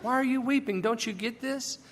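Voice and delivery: can't you see it?; puzzled angels. Acted. Angels to weeping Mary, bewildered. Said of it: "they want to know why she doesn't understand".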